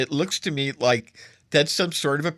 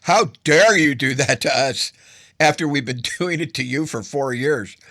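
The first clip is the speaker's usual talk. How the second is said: huffy indignation; 4 dB louder than usual. Retold or imitated. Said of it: "you get the Russians into a big huffy mood".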